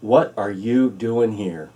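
slow, deliberate question from God; slow, wondering question. Shown as a demonstration. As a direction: ask it slowly, letting each word land. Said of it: "something like this".

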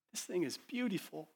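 awed praise rising to a shout; building joyful invitation. Acted. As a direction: swell with delight toward the call. Worshipper voiced, rising invitation.

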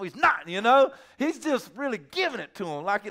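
normal talking voice

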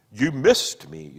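slow, trembling tragic delivery; theatrical tremor. Acted. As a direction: throw a dreadful tremor into it. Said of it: "throwing a dreadful theatrical tremor into his voice".

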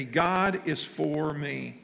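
slow, measured recital; slow congregational recital. Shown as a demonstration. Pastor leading the congregation in slow recital. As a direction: lead the room through it slowly. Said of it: "I want you to just say that with me".

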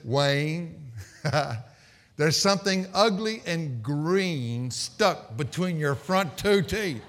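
slow, hushed wife at his ear; lightly voiced wife leaning in to whisper; wife's whisper. Wife whispering to husband at restaurant, slow and hushed. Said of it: "And she said".

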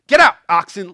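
loud shout at the oxen; Jesus shouting the oxen out; shooing oxen. Retold or imitated. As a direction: yell the animals out of the temple. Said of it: "He's like".

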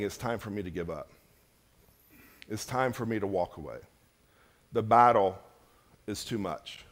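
low, soft voice of giving up; weary inner voice. Acted. Churchgoer privately saying it's time to give up, low weary murmur. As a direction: drop right down, as a private defeated thought. Voices congregation's hidden wish to quit.

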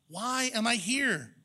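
slow, searching question; pondering tone. Shown as a demonstration. Preacher reads Ecclesiastes to his congregation, slow and searching. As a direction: let the question hang, slowly. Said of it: "I'm reading an intonation, like a tone".

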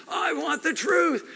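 high, slow shouted demand; movie shout. Retold or imitated. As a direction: bellow it like the courtroom scene. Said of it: "and he screams".

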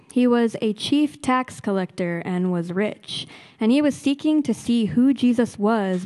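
measured, clearly phrased Bible reading aloud; Scripture reading. A narrator's reading. Reader giving Luke chapter nineteen to the church, formal Scripture reading. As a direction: read the passage out formally to a congregation.

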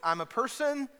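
loud, high yell of reassurance; panicked reassuring yell; yelling through a beanie. Retold or imitated. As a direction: shout it out muffled so he knows you're human. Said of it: "trying to yell through the beanie".

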